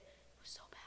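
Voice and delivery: hushed unvoiced whisper. Real, not acted. Daughter whispering to podcast listeners about bad hair. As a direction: breathe it out in a whisper.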